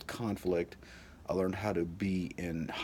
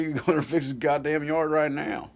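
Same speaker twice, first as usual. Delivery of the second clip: much louder and higher furious shout; yelling dad; 9 semitones higher, 8 dB louder than usual. Retold or imitated. Father yelling at son to fix yard anyway, shouting. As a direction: blast him with the order.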